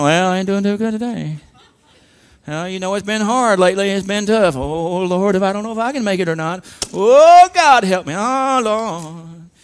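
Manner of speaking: hammed-up mock moaning; whining and crying. Preacher mimicking gloomy Christians answering how they're doing, whiny. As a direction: wail OH GOD like a put-upon complainer, drawing it out. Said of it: "Whining and crying".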